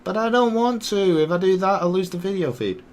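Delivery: high-pitched, reluctant objection; high and complaining, easing down at the end; whiny protest. Real, not acted. Protesting advice to zoom in.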